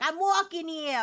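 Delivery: hammed-up New York street cry; stereotypical New York accent. Shown as a demonstration. Streamer shows an AI the accent wanted, stereotypical New York. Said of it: "stereotypical New York accent".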